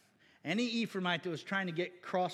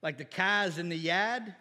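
put-on dropped-r Brooklyn accent, slowed down; slow imitation Brooklyn accent; 2 semitones lower, slower than usual. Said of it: "talk to somebody from Brooklyn".

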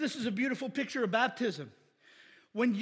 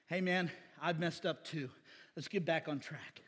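gentle encouragement; 6 semitones lower, 7 dB quieter than usual. Retold or imitated.

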